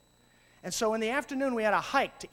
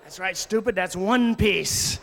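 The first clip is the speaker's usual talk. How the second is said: slow, drawn-out ribbing; a touch of mock sarcasm to a child; teasing mock scorn; 3 semitones lower, 7 dB louder, slower than usual. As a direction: rib the kid playfully. Teasing reply to kid.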